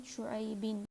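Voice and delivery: شعیبن said shu'aybin; "in" ending. Shown as a demonstration. Teacher listing three endings, شعیبن ending in "in". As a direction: end شعیبن in "bin". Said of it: "ان، ان کی".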